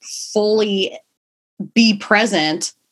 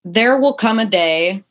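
tender self-reminder. Retold or imitated. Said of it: "I say to myself".

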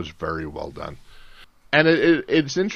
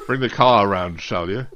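put-on posh British accent; 2 semitones higher, 6 dB louder than usual. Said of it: "posh British person".

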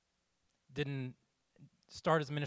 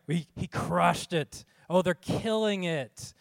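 louder, higher hype; hyped praise; 4 semitones higher, 6 dB louder, slower than usual. Retold or imitated. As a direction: cheer them on like a fan. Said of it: "just think about what we say".

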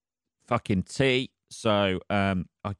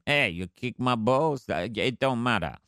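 a hint of a dodgy French accent; barely voiced French accent; mock French accent. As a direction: shrug it off like a tough French bulldog, faint accent. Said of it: "There's a fucking dodgy French accent for you".

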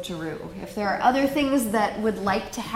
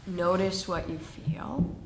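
whispering; 5 dB quieter than usual. Real, not acted. Whispered cue in meditation.

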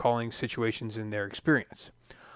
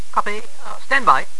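radio voice; 8 semitones higher, 11 dB louder than usual. Retold or imitated. Control room radio reply.

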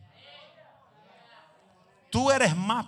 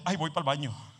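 laughing quote; 2 semitones lower, 4 dB louder than usual. Retold or imitated. Joking quote of congregant.

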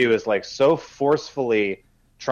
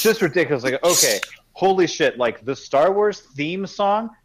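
slow, high incredulous emphasis; slow, raised exasperation that these are basic; exasperated; 7 semitones higher, slower than usual. Real, not acted. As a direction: spell it out in disbelief. Exasperated rant about easy references.

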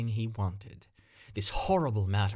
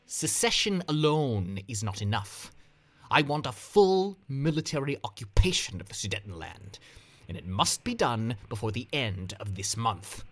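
steady, unyielding demand, a bit louder; firm; 3 semitones higher, 3 dB louder than usual. Acted. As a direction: lay down the terms flatly. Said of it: "He responded firmly".

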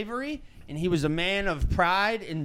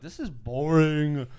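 slow, drawn-out mock boredom; retold bored groan; bored complaint; slower than usual. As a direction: stretch out the last word. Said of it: "and I was like".

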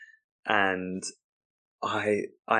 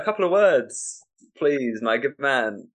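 raised voice, then slowing on the plea; pointed, mock-polite prompt; exasperated prompting; 5 semitones higher, slower than usual. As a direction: coax a slow guest with strained politeness. Host prompts baffled guest on stage.

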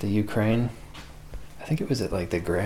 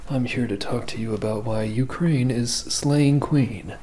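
NPR host voice. Retold or imitated. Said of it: "that's how they talk about it on N P R".

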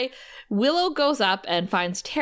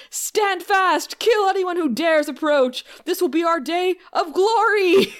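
high, loud mock battle cry; rally the troops like a pompous henchman; hammed-up minion war speech, laughing; rousing minion speech; 8 semitones higher, 3 dB louder than usual. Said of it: "that was a better speech".

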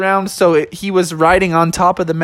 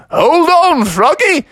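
high, louder owl voice; high owl call; 12 semitones higher, 4 dB louder, slower than usual. Acted. Alfred the owl telling Froggy to hold on, high call.

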